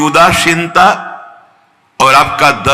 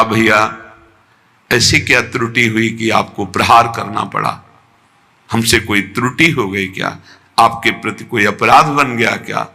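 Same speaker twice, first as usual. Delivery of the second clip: low, soft, humble questioning; without anger; 4 semitones lower, 4 dB quieter than usual. Retold or imitated. Baba to his attacker after the blow, gently humble. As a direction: ask softly, with no trace of reproach. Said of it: "तनिक भी क्रोधित नहीं है".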